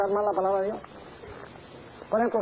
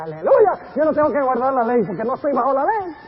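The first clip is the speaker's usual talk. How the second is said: mock jubilation; 3 semitones higher, 5 dB louder than usual. Mocking careless believers.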